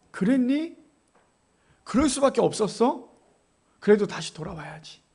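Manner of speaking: forgiving parent, no longer scolding; gentle understanding. Acted. God answers a sinner gently instead.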